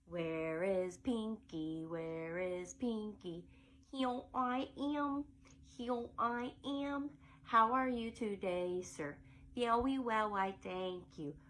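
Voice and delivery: a hint of a tiny baby singing. Shown as a demonstration. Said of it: "it's gonna have the baby voice".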